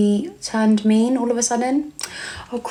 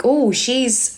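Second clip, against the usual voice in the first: higher, mock-teasing "ooh"; retold rude teasing; 4 semitones higher than usual. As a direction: lightly imitate them taunting her. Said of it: "being even more rude".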